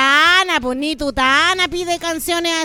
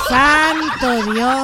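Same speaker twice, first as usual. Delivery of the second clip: exasperated sigh; 2 semitones lower, much slower than usual. Real, not acted. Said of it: "exasperated host".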